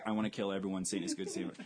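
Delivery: quoting movie line. Retold or imitated. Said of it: "there's the obvious quote".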